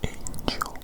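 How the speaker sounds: soft, voiceless whisper of one word; whispered test word. Acted. Examiner giving the next hearing test word, whispering. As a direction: whisper it softly into their ear. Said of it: "I'm going to whisper a word".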